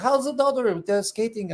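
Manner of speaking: a hint of Nicholas asking kindly; Nicholas impression. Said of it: "my Nicholas from Bastinelli Knives impersonation".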